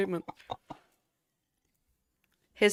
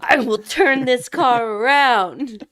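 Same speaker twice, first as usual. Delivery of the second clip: louder, slow dad threat without the T; refereeing kids in car; 5 semitones higher, 10 dB louder, slower than usual. Pretend. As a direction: drop the T, bark like an angry dad. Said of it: "He can't pronounce the T in anything".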